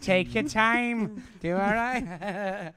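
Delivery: loud laughing, then slow; laugh, then drag the words slowly. Real, not acted. Friend joking about a song, laughing loudly. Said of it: "joke narration while laughing".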